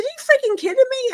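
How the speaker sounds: high, loud, disbelieving cry; excited retold disbelief; incredulous. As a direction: squeal it like you can't believe your luck. Retold shock at castle offer.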